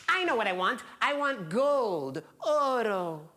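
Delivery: high, drawn out on the prize; excited, lifted little-old-lady voice; eager old woman. Acted. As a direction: announce a greedy choice with relish. Old woman excitedly picks again.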